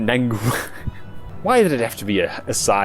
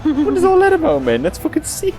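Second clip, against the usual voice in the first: excited shout, much higher; yelling in awe at the screen; amused disbelief; 4 dB louder than usual. Real, not acted. Hyped reaction to a flashy attack.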